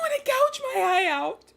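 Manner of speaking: loud, high hammed-up wail; mock anguished cry. Streamer wailing melodramatically at the game's ending. Despair over game outcome.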